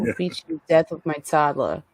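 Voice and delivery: tough Brooklyn mom accent, half-played; mock threatening Brooklyn mother. Reprising her set improv, playful Brooklyn accent. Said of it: "she came back with her Brooklyn accent".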